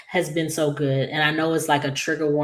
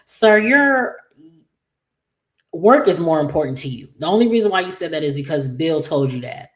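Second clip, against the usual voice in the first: sassy call-out; 5 dB louder than usual. Pretend. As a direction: call him out, sharp and loud. Talking back at Tomas on screen.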